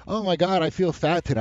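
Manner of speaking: mock girlish fretting. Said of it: "she walks in and she's like".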